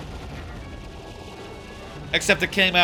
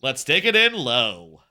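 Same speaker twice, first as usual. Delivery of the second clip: lower, nasal try; 5 semitones lower than usual. Retold or imitated. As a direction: drop it down and pinch it. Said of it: "It needs to be a little bit nasalier".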